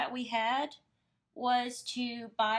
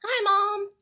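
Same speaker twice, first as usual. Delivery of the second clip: excited greeting; 9 semitones higher, 10 dB louder than usual. Real, not acted. Greeting mom joining the stream.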